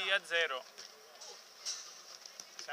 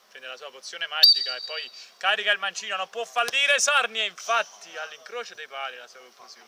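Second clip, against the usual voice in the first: excited commentary; 5 dB louder, faster than usual. Acted. Comic buildup to a goal.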